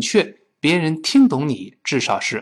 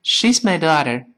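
relaxed American "daughter" with a flapped t; American accent, lazy; lazy American English; 3 semitones higher than usual. Shown as a demonstration. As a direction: say it loosely, the American way. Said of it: "美国人呢，就懒惰得很，说成".

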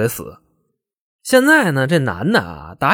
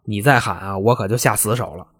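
low, softened threat close to the ear; coaxing in her ear; 3 semitones lower, 5 dB quieter than usual. Acted. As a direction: quietly warn her to stop, voice dropped. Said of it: "男的就在耳朵边上劝她".

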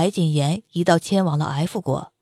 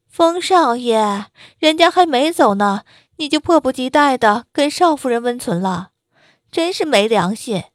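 coquettish; 3 semitones higher than usual. Acted. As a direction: coo it like a spoiled mistress calling from upstairs. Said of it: "娇嗔的声音从楼上传来".

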